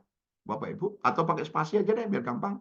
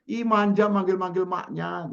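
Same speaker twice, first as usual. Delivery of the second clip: playful teasing; 4 semitones higher than usual. Retold or imitated. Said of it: "Saya candain aja lah".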